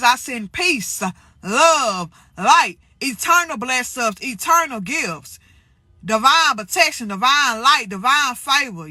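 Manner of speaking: slow, unhurried benediction over the viewers; slow blessing. Acted. Vlogger blessing her viewers at year's end, slow benediction. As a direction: lay each blessing down slowly like a prayer.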